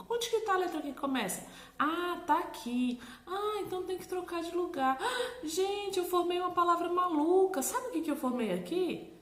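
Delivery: high, delighted make-believe surprise; playful discovery. Shown as a demonstration. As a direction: act amazed for a child. Acting out play with child.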